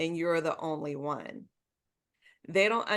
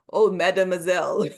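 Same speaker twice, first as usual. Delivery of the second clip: light mock French accent, a bit louder; a hint of a French manager's accent; 6 dB louder than usual. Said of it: "In his French accent".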